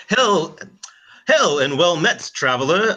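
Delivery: a shaky try at posh British RP; attempted RP accent. Player attempts Heron's posh RP greeting to himself. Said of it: "it's so hard to R P".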